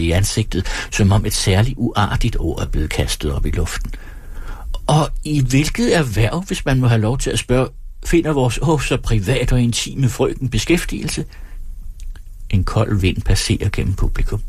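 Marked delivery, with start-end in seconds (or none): 4.9-11.2 lightly voiced showman, mock-polite; mocking stage performer. Performer asks the woman her profession, mock-polite. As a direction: tease with elaborate courtesy. Performer mocks audience member.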